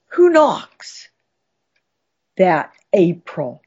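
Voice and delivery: dramatic, varied poetry reading; lively poem recital. Acted. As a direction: perform the poem with relish.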